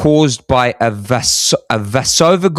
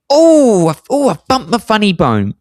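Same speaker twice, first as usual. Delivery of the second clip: high, mock feeble whine over a minor bump; mock wimpy complaint; 9 semitones higher than usual. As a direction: play it as a dainty little knock, high and whiny. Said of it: "I don't mean".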